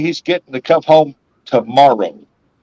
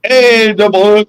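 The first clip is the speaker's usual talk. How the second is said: high, loud, stretched holler; calling out a greeting; 9 semitones higher, 5 dB louder, slower than usual. Real, not acted. Host hailing viewer Double Hook, high drawn-out call.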